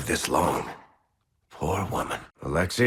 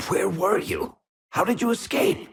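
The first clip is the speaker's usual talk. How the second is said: surprised; 13 semitones higher than usual. Acted. Reunion with a lost friend.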